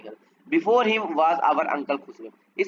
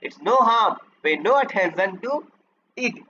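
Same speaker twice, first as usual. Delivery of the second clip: roared; much slower than usual. Retold or imitated. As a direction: roar it like the impatient uncle. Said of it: "and roared".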